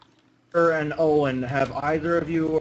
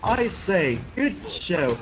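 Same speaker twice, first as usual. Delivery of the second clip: lightly voiced video quote, higher pitched; quoting impression; 5 semitones higher, much slower than usual. Player quoting a YouTuber's video to friends, mock hearty exclamation. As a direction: raise the pitch a little for the catchphrase. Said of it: "an impression probably wouldn't be the best".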